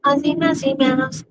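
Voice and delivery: a light high Cartman-style sing-song; lightly voiced cartoon kid singing. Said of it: "You can't understand Cartman?".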